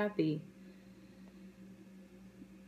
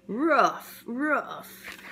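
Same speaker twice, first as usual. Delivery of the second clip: puppy bark; 3 semitones higher, 4 dB louder than usual. Acted. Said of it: "when the dog tries".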